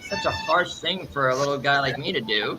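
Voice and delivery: hammed-up innocence to big bro; innocent act. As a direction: play the sweet little guy, pleading. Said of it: "did that whole little innocent stance".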